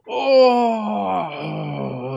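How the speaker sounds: loud, drawn-out "oh" of pain; pained giant's cry. Acted. Game master voices the giant hit in the knee, pained cry. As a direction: cry out high and loud, then let it fall. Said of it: "She's like".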